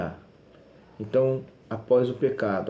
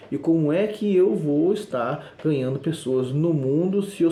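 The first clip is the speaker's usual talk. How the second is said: full-force sermon climax; fiery preaching; 4 semitones higher than usual. Acted. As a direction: drive it home to the congregation.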